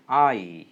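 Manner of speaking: I as a clear a-i glide; model pronunciation. Shown as a demonstration. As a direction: say I with a full glide from a to i. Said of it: "pronounced like this".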